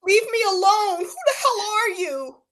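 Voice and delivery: high, loud, laughing cry of a French guy; mock French accent, squealing. Friend mocking Kourtney's ex, hammed-up French squeal. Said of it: "Can't do a French accent".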